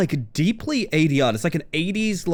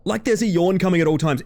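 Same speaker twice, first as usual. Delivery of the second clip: usual speaking voice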